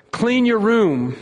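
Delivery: slow, firm parent's command; parent's order. Retold or imitated. Father telling his child to clean up, firm and slow. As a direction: lay down the law like a father.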